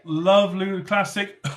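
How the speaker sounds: slow, mock-enthusiastic praise; fake praise. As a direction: gush sarcastically, drawn out. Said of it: "I can't keep a straight face and say that".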